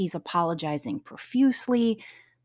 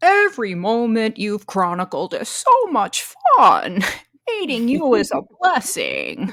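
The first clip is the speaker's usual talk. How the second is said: put-on, loud, swooping voice; 4 semitones higher, 8 dB louder than usual. Quoting a man's lines, slipping into Kathy's voice. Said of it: "you're slipping into Kathy".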